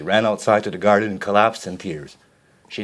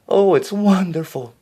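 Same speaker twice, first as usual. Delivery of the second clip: high, slow delighted gasp of joy; delighted exclaim; 11 semitones higher, 5 dB louder than usual. A narrator's reading. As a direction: marvel at the gift. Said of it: "Cinderella exclaimed".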